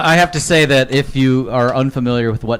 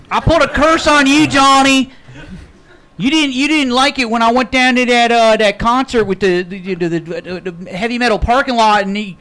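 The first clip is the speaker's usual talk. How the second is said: put-on Maryland LARPer accent; 8 semitones higher than usual. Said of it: "everybody else has a Maryland accent".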